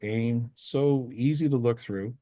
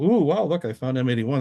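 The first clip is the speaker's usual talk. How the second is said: mock excited discovery; 3 semitones higher, 3 dB louder than usual. Showing off a faint galaxy to the public, mock excited. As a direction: lightly mimic a thrilled astronomer.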